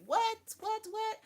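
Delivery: high-pitched, bewildered "what?"; startled mock reaction. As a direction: act out someone running around startled. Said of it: "gonna be around here like".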